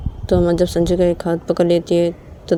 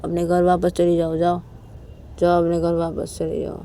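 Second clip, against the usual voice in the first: resigned, trailing off softer; dejected self-blame; 3 dB quieter than usual. Acted. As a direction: push her away in a sinking voice. Sanju blames himself, sends Uma away.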